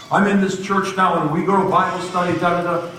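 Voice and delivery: high, rattled-off imitation of her chatter; excited gushing. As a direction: rattle on like an overjoyed convert. Waitress goes on and on.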